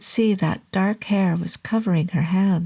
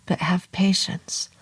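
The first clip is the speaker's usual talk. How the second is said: soft. Acted. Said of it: "he said softly".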